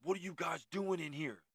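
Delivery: high-pitched startled guard confronting intruders; imitating a rattled security guard; scared and pissed. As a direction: retell an alarmed, angry challenge. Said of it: "like, scared, pissed".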